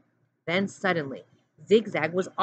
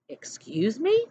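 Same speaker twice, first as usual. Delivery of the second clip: stern challenge; 4 semitones higher, slower than usual. A narrator's reading. Warden challenges Zigzag again.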